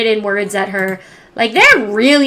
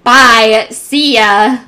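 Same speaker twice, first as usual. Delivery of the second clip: breezy goodbye; 7 dB louder, much slower than usual. Acted. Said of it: "walk out the door like".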